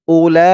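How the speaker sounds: "উলা" with the final "লা" held very long; four-alif elongation. Shown as a demonstration. Teacher showing the madd rule, "উলা" drawn out long. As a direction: chant "উলা", stretching the last vowel for four counts. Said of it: "এখানে চার আলিফ টান হবে".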